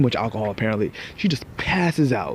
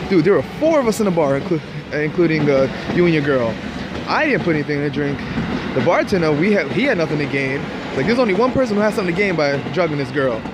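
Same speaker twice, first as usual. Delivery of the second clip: exasperated inner retort; 4 semitones higher than usual. Retold or imitated. Narrator's exasperated inner reply.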